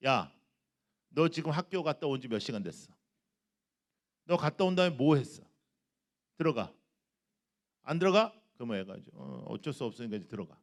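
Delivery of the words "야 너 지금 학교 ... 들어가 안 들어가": exploding mother. Retold or imitated. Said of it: "엄마가 이제 폭발했어".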